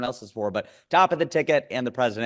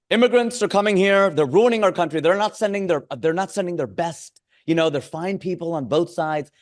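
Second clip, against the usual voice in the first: higher, louder Trump impression with big gestures in the voice; a hammed-up Donald Trump at a rally; 5 semitones higher, 4 dB louder than usual. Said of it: "So he'll go".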